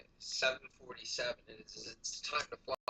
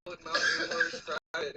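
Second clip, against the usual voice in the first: yelling; 4 semitones higher, 7 dB louder than usual. Retold or imitated. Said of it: "And he was yelling".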